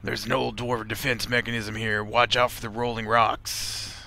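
lightly voiced game character. Character warning of rolling rocks, lightly put-on voice. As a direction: read it in character, slowing into the warning. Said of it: "I think that's the voice I was using".

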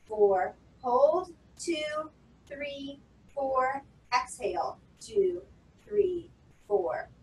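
a steady, rhythmic count for breathing; counting breaths aloud. Shown as a demonstration. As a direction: pace the class through inhale, hold and exhale. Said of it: "I'm gonna count while you breathe".

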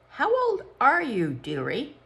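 high, honeyed grown-up voice; sweet-talking lady. A narrator's reading. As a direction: coo at a small child. Psychologist asks child.

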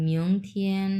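"মিয়ং থিয়েন" as mi-ong thien, tones held; model pronunciation. Shown as a demonstration. Teacher showing students the tones, careful "মিয়ং থিয়েন" as mi-ong thien. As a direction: sound out "মিয়ং থিয়েন" with an o glide. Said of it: "এরকম".

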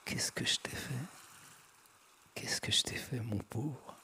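whispered, gently mocking; teasing whisper. A narrator's reading. Ariana taquine son compagnon transi, en chuchotant. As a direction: breathe it out, teasing him tenderly. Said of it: "d'un ton railleur".

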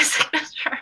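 usual speaking voice

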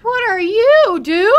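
shouting up high in alarm; startled shout. Real, not acted. Shouting at the giant creature that suddenly looms, alarmed. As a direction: yell it out, half panic.

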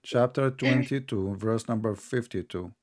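slow it down so he can follow the reference; said slowly. Shown as a demonstration. Citing the verse slowly for his opponent, slow and deliberate. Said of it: "I have to say it slowly".

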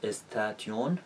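استاتیون read letter by letter as es-ta-ti-yoon; a learner spelling out استاتیون as es-ta-ti-yoon; wrong spelling pronunciation. Shown as a demonstration. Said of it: "ممکنه بخونیمش".

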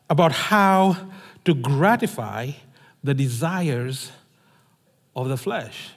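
measured, solemn reading of a Bible passage; scripture reading. Acted. Scripture reading opening the sermon.

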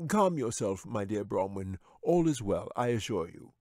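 lightly voiced wizard, calming the beast; a hint of a smooth old wizard; soothing wizard. A narrator's reading. Wizard to his bear, lightly voiced calm.

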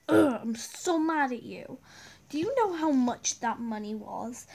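loud exasperated mother; angry scolding mom. Acted.

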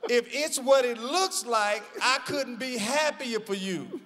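Cheryl's voice. Retold or imitated. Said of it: "I'm saying it in her voice".

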